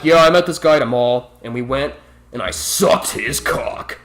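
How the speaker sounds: lightly mocked bragging girl, the dirty bit breathed out; a hint of a gossipy teen bragging; mocking the coworker. Mocking the coworker who brags to everyone, lightly hammed-up gossip. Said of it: "being like".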